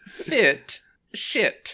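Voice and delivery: slow, exaggerated Boston accent; enunciated Boston accent. Shown as a demonstration. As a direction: lean hard into Boston. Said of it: "really enunciate on that one".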